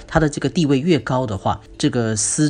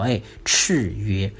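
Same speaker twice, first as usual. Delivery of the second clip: slow, solemn stern decree; 3 semitones lower, slower than usual. Retold or imitated. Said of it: "说起话来是对你特别严肃".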